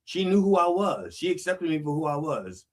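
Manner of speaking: a grieving man's lament; grieving accusation. Acted. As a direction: voice the man's raw grief at God. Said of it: "he's blaming God for the loss".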